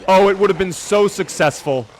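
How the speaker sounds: loud, high theatrical lament; dramatic lament. Acted. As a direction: ham up the loss.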